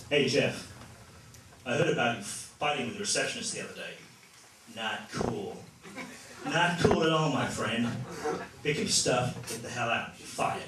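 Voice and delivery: blunt American boss. Retold or imitated. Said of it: "if you need to fire someone".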